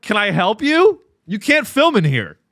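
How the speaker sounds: a hint of an office secretary. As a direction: play the polite but firm receptionist. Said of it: "she's like".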